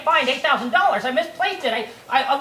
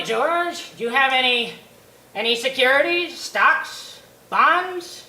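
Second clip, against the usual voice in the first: a hint of a smug old banker; slow, mildly smug questioning; lightly voiced old banker; 3 semitones higher, slower than usual. Old banker Potter questions George, a touch smug.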